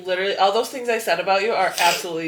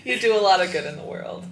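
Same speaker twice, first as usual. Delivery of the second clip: sincere compliments. Real, not acted. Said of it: "get into your body and your feelings".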